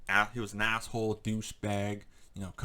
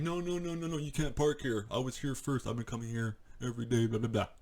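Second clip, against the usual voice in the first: higher whiny mock of the old man; mock entitled regular; 3 semitones higher than usual. Vlogger pretending to be the rude man, mocking. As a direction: play the smug guy turning people away. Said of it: "and I was like".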